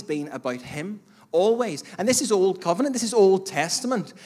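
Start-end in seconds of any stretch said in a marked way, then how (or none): 1.3-4.1 emphatic preaching. Real, not acted. Preacher building to a loud peak.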